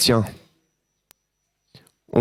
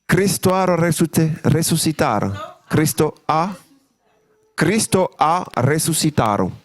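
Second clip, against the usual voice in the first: mock Spanish; 3 semitones higher than usual. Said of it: "Je parle aussi espagnol là-bas".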